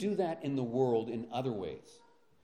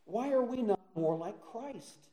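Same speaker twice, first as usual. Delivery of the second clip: raised, higher and slower, crying out the question; preacher pleading loudly with the congregation, raised and slow; impassioned plea; 9 semitones higher, 5 dB louder than usual. Real, not acted. Preacher appealing to his flock, loud and drawn-out.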